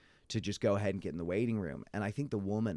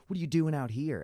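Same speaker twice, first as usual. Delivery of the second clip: higher, louder mock challenge; imitated confrontation; 8 semitones higher, 5 dB louder than usual. Old man confronting the waiting woman, mock indignant. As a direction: imitate someone getting in a person's face.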